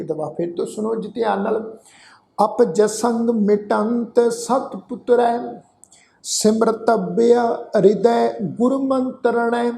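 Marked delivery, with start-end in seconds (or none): 2.4-9.7 slow, measured chant of the verse; scripture recitation. Acted. Teacher reciting the shalok for the sangat to repeat, slow chant. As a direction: intone each line slowly for them to follow.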